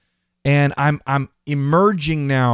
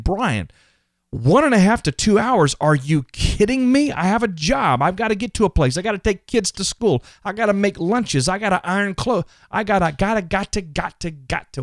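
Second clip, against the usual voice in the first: higher voice, exasperated and protesting; voicing a doubtful listener; 4 semitones higher than usual. Imagined listener objecting to two hours, exasperated and higher. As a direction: play the busy parent who can't believe it.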